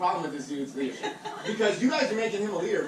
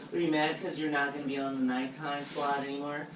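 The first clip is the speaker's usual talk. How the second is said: mocking boss voice, a bit lower; sneering white guy impression; 3 semitones lower, 5 dB quieter than usual. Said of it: "That's, that's your white voice".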